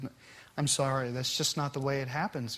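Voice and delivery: firm but kind, no raising the voice; calm and godly. Retold or imitated. Father refusing his daughter's demand, calm and soft. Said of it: "in such a calm, godly way".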